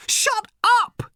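put-on high, loud girl's yell; a furious teen girl screaming at her mother; shouting teenage girl. A narrator's reading. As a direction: bark it at her mother in fury. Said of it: "shouted Random".

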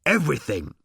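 high, slow ecstatic moan; moaning robot. A narrator's reading. Robot answering Ford's demand, moaning with pleasure. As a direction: moan it in swooning rapture. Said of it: "moaned the robot".

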